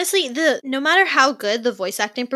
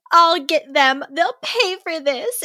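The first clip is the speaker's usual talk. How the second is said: lightly acted vengeful vow, pitched up; emotional, upset character; 6 semitones higher than usual. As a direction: imitate her upset vow, higher and drawn out at the end. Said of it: "sounds so emotional and, like, upset".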